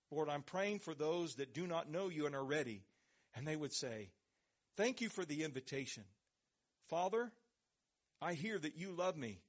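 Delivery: earnest spoken prayer voice; closing prayer. Acted. Pastor praying aloud over listeners as service closes, earnest prayer. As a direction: pray it sincerely over the congregation.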